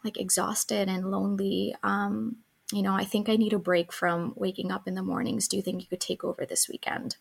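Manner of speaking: soft, gentle request for help; a calm, honest plea to a partner; calm vulnerable ask. Shown as a demonstration. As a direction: say it tired and open, not blaming. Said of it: "tap into those vulnerable emotions".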